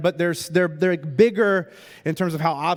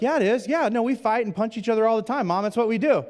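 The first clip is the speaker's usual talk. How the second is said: put-on higher, breezy teenage brag; cheeky kids; 5 semitones higher, faster than usual. Sons bragging to Mom in front of the photographer, cheeky. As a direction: toss it off like a proud troublemaker. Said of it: "they're like".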